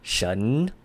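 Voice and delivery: shen rising, with the final n sounded; full shen with N. Shown as a demonstration. Teacher showing how not to say it, shen with a full n. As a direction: draw shen upward and hold the n. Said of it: "you don't actually pronounce it".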